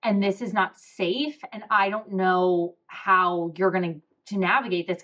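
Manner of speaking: slow, drawn-out mock of a fretting mother; imitating her worried mom. Daughter imitating her mom warning that business is risky, slow and worried. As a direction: stretch the words out like an anxious parent. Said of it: "she was gonna be like".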